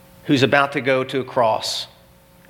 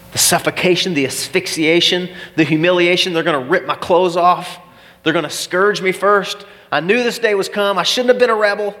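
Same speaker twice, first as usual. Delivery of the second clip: anxious dread; 5 semitones higher than usual. Acted. Barabbas dreading the cross.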